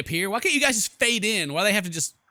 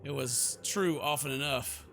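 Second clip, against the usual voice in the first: quieter, measured narrator's read; story narration; 3 semitones lower, 5 dB quieter than usual. Acted. Heroine doubts this bizarre dream is real, measured narration. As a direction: narrate it evenly with pauses. Reads game's narration aloud.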